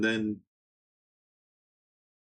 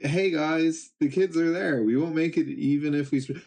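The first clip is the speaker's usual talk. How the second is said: higher, hurried voice; urgent warning; 5 semitones higher than usual. Acted. Giant pirates warning each other about the kids, higher and urgent. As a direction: warn your crew in a rush.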